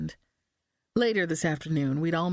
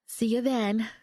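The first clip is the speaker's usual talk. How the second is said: tight voice; 4 semitones higher than usual. Acted. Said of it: "Her voice sounded tight".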